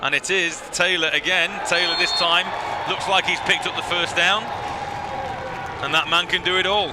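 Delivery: animated, slightly lifted sports call; live play-by-play. Real, not acted. Commentator calls Taylor's run for a first down, live play-by-play. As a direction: build with the run to an admiring finish.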